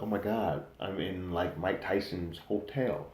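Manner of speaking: imitated awe, slowing on the last words; awed. Young woman marvels at being in the star's hotel, awed. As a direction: draw it out in mild wonder. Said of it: "looking in awe of the place".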